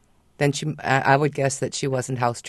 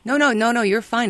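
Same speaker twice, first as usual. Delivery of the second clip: quick to reassure, high and louder; higher-pitched, emphatic comforting; insistent reassurance; 9 semitones higher, 5 dB louder than usual. Real, not acted. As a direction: jump in to put the worried owner at ease. Trainer reassures an apologetic dog owner.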